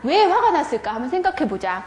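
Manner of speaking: teacher voice. Shown as a demonstration. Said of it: "또 질문합니다".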